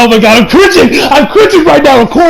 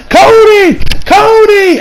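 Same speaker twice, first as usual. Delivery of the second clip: much higher, frantic calling of a name; desperate shout; 10 semitones higher, much slower than usual. Retold or imitated. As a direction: cry out for him in panic, high and strained. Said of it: "he's just like".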